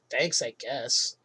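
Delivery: slow, grudging mock thanks. Celebrity customer handed napkins and straws, retold grudging thanks. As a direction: drag out a reluctant thank-you, lightly imitated.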